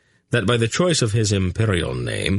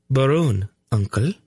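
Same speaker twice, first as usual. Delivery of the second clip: higher, lightly prim woman's voice; prim correction; 6 semitones higher than usual. A narrator's reading. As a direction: correct your uncle primly. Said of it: "Tolnedra corrected primly".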